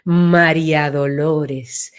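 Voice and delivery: María Dolores low, slow and broad; wide, low name. Shown as a demonstration. Coach demonstrating the name widening, low and slow. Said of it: "se ensancha".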